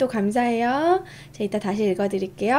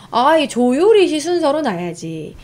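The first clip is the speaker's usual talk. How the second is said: mock know-it-all at the ancestral table; knowing show-off; 2 semitones higher, 4 dB louder than usual. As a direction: show off what you know, a bit louder. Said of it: "뭐 이런 거". (아는 척하는 말투)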